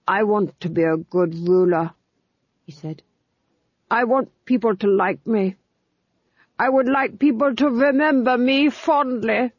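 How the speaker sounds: lightly voiced, yearning duke; a weak lord wishing to be loved; wistful duke. A narrator's reading. Duke telling the Fool his wish, wistful.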